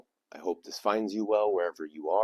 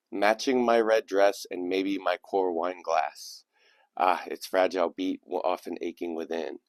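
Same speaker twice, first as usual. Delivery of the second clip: lilting recital, lifted at first then settling; poem reading. Acted. Host reading a poem written by a teenage girl, measured recital. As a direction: give each image its own phrase with pauses. Reads a submitted poem aloud.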